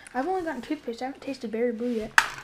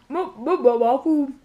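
stammering through laughter; giggling out the words; laughing in disgust; 7 dB louder than usual. Real, not acted. Gross bean, laughing and stammering.

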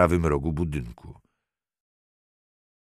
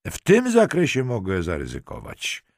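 mildly raised, higher-pitched call; 6 semitones higher than usual. A narrator's reading. Halinka answers the detective from the bathroom, calling out. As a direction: call it out from the shower. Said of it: "krzyknęła".

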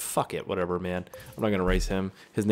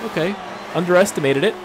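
ordinary talk

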